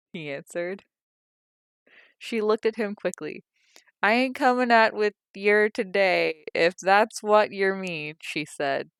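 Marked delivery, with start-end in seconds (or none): 4.0-8.2 loud, high, slow brush-off; sharp rebuff. A narrator's reading. Liza refusing Tom's company, loud and sharp. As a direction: cut him off coldly.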